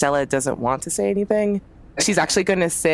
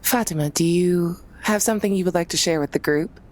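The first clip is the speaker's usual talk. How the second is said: sarcastic call-out; 3 semitones higher than usual. Acted. Calling out the gossiper.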